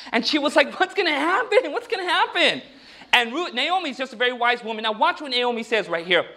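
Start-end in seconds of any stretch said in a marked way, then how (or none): 0.8-2.6 mock nervous. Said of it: "She was really nervous".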